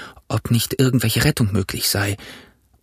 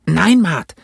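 higher, louder rusty sailor voice; old castaway; 7 semitones higher, 5 dB louder than usual. A narrator's reading. Castaway telling Jim he was marooned, rough voice.

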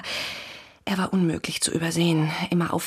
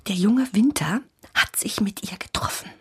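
conspiratorial whisper; 5 semitones higher than usual. Acted. Neighbour gossips secretly to police.

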